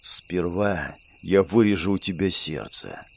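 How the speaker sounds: low, soft, slow villain purr; sweetly menacing. A narrator's reading. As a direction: threaten tenderly with a grin. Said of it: "с ласковым оскалом произнесла Магесса". (ласково-зловещий голос злодейки)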